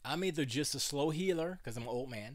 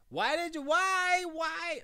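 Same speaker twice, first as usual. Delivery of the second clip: much higher mock parent cry for a level test; 6 dB louder, slower than usual. Shown as a demonstration. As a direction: yelp it up high to test the mic. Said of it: "I'm testing".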